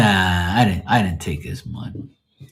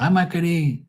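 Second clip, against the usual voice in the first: grandma's voice; 9 semitones higher than usual. Retold or imitated.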